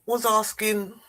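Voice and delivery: slow, deliberate put-on voice of a female MP, drawn-out pauses; a mock-grave parliamentary speaker, words stretched out; imitating Diane Abbott. Mimicking an MP's slow speech to mock the Prime Minister. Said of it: "I'm gonna do my impression of Diane Abbott".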